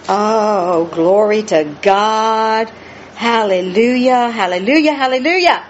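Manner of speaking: slow, drawn-out worshipful praise; praise exclamation. Real, not acted. Preacher breaking into praise mid-sermon, fervent hallelujahs. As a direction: draw out each word of praise.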